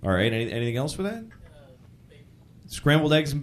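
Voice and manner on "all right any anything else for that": normal talking voice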